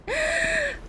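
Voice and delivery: high, sudden intake of breath; startled gasp. Real, not acted. Gamer falling in the game, startled gasp. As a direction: gasp as the floor drops.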